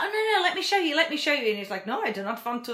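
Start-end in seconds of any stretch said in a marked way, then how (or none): 0.0-1.5 tenacious Eric. Retold or imitated. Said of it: "He's very tenacious ... he does this like". 1.9-2.7 put-on lightly done German accent. Imitating the buyer turning Eric down, light German accent. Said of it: "this is my German accent".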